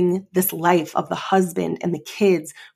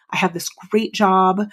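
whisper. Retold or imitated. Whispered self-reassurance in a quote.

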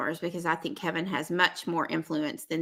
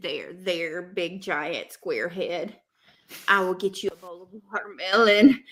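mock soothing. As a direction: comfort him like a mother, mockingly. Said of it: "And she said".

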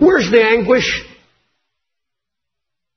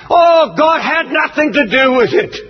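mocking TV preachers; 3 semitones higher than usual. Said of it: "when I hear preachers on television".

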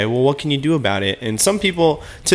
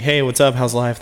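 small-talk greeting; 3 semitones higher than usual. Acted. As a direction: toss off a routine greeting. Routine small-talk greeting, acted.

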